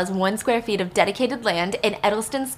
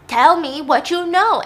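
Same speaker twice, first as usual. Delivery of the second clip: loud, slow, raised-pitch father's order; angry demand; 6 semitones higher, 7 dB louder, slower than usual. Acted. Dad pressing his daughter for answers, slow angry shout. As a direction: demand it word by word.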